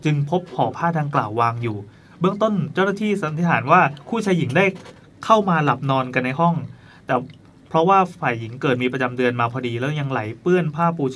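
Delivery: reading a news story aloud; steady, formal report delivery. Acted. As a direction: read it out like a written news item.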